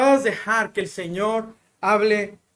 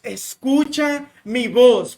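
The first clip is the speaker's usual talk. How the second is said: God's voice; 2 semitones higher, 5 dB louder, much slower than usual. Retold or imitated. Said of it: "la voz de Dios diciéndonos".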